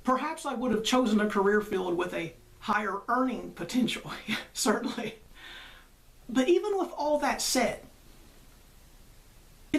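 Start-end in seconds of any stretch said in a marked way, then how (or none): 4.3-5.2 amused whispered concession; breathy laughing aside. Real, not acted. Laughing aside about earning potential.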